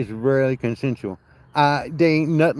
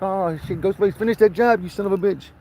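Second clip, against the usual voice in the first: mock urging; 7 semitones higher than usual. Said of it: "And I was like".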